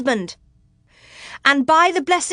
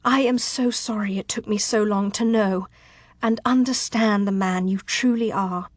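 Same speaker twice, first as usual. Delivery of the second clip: gentle, slightly raised, heartfelt voice; tender love confession; 3 semitones higher than usual. Acted. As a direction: pour out love and apology sincerely. Tearful heroine answers declaration of love.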